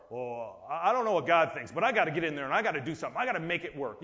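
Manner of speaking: frantic believer. Retold or imitated.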